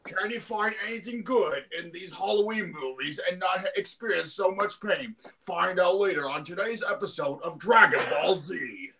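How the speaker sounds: lightly voiced dramatic episode announcer; Kyle Ebert. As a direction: tease the next episode like an anime narrator. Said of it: "That's my Kyle Ebert impression".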